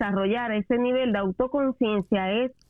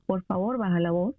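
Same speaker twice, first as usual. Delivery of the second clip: suave y más bajo, con calma; pídelo con serenidad de padre paciente; calmado; 3 semitones lower than usual. Shown as a demonstration. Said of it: "Yo le tengo que decir". (tono tranquilo y más suave)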